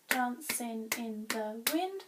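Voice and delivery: "Dancing in the wind" in even, separate beats, rising at the end; checking syllables. Shown as a demonstration. Teacher checking the written line, syllable by syllable. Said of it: "Let's check".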